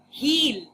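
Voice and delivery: "heel" with a long, stretched "ee"; lengthened vowel. Shown as a demonstration. Teacher showing how the name sounded, "heel" held long. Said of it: "the second part sounded like".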